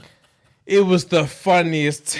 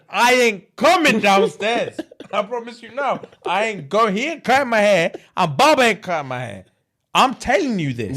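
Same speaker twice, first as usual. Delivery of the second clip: higher, pleading little brother's protest; a hint of a stubborn little brother; whiny kid refusal; 5 semitones higher than usual. Brother refusing haircut, retold.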